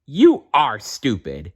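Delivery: a touch of cross, slowed down; mild crossness. Acted. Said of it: "said the elf crossly".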